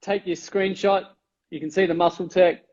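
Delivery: words squeezed through teeth; talking through teeth. Real, not acted. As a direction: keep the jaw still. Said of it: "I'm talking through my teeth".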